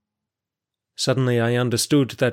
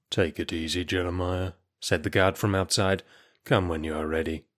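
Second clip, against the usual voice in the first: soft, lower, kindly guard; gentle reassurance; 3 semitones lower, 4 dB quieter than usual. Acted. Kind guard softly tells the sick prisoner to take his time. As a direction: ease him along quietly, no pressure.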